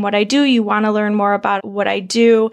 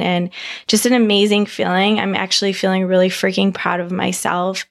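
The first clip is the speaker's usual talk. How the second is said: a little hoarse after partying; worn-out party voice after a trip. Real, not acted.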